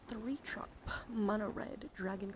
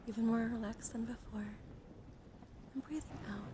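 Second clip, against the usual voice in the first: hushed, unhurried relaxation voice; guided breathing meditation. Acted. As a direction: guide them gently through each breath. Leads a breathing exercise.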